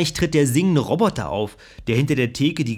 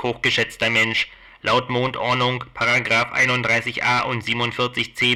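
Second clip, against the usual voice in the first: a lightly voiced, stiffly formal robot; robot barkeeper. Robot publican refusing a drunk more drinks, mildly mechanical. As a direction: recite the rules like a polite machine. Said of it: "Wenn der mechanische Kneipier überhaupt etwas sagt".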